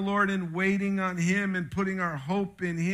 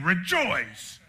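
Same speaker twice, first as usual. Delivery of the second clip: drill sergeant order. Retold or imitated. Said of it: "like a drill sergeant telling you".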